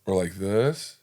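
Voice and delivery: "this" lifted gently at the end; varied intonation. Shown as a demonstration. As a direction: demonstrate a smaller rise on "this". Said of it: "supposed to be like this".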